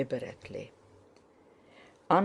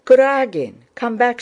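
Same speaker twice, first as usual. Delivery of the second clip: high, loud call to come back; raised voice, urgently calling someone back; shouted warning; 7 semitones higher, 11 dB louder than usual. A narrator's reading. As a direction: shout after a friend in alarm. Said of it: "shouted Dólokhov".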